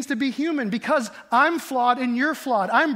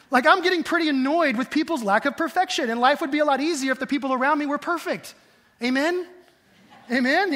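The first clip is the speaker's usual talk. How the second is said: mock-annoyed, pitched up a little; sarcastic; 4 semitones higher than usual. Preacher joking to congregation about imperfect people, sarcastic. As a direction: play up the complaint, then fish for an amen. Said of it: "I'm being sarcastic".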